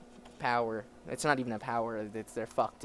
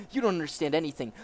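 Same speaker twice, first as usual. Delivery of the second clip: put-on quicker retake without the German accent; corrected accent; 4 semitones higher, 6 dB louder, faster than usual. Captive protesting to interrogator, German accent dropped. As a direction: drop the German accent and rush it. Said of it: "I keep using the wrong accent".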